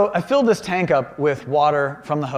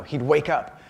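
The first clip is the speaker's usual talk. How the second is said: ordinary talk, nothing marked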